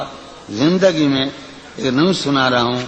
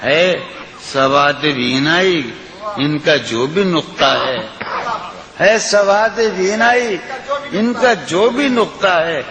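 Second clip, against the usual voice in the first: lilting, sung-through recitation of a ghazal; poetry recitation. Acted. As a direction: recite it like at a mushaira. Recites the nazm.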